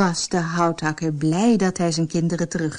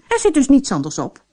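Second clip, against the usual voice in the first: angry; 5 semitones higher, 4 dB louder, faster than usual. Acted. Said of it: "zei de vrouw boos".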